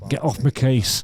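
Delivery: put-on restrained Manchester accent; Mancunian, held near speaking pitch; a singer. Trying the singer's retort, unforced Manchester accent. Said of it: "which part of Manchester I was from".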